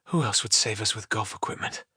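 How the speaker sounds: low, understated relief; relieved. A narrator's reading. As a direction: say it low, letting the tension go. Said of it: "Jerry, relieved".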